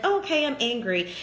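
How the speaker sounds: tossed off like it's nothing; brushing it off. Retold or imitated. Coach mocking someone who skims past anger, dismissive. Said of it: "be like".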